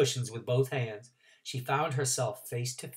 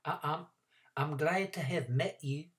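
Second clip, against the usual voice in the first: polite; 2 semitones higher, 6 dB quieter than usual. Acted. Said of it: "as politely as she could".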